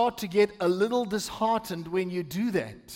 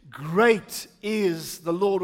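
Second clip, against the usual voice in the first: slow, steady declaration; measured scripture declaration; 2 semitones lower, much slower than usual. Shown as a demonstration. Pastor leading the congregation to repeat the verse, slow and measured. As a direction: declare it slowly, with restrained passion. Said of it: "With a bit more passion".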